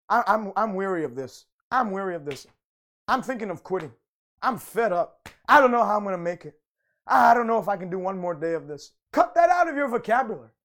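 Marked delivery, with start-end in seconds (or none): 0.1-8.9 mock weary. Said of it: "another way of saying".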